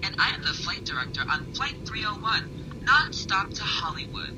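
flight attendant announcement. Acted. Flight director addressing passengers.

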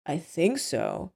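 soft, slow, unsure reply; hesitant. Acted. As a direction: answer slowly and quietly, as if doubting it. Carrie's hesitant reply, read aloud.

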